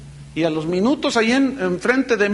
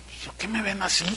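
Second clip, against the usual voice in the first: hushed aside; 11 dB quieter, faster than usual. Retold or imitated. Pastor recalls confused question.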